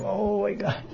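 high, soft straining voice; high breathy-light girl voice, stretching; girl straining upward. Acted. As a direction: reach for the flower and sigh it out. Radharani straining for flower.

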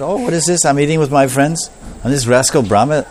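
lightly acted surprise at being robbed; mildly indignant surprise. Krishna finds his friends gone while eating, mildly indignant surprise.

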